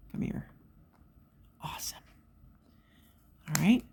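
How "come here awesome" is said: soft whispered awesome. Real, not acted. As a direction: breathe it out in satisfaction. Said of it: "whispered approval".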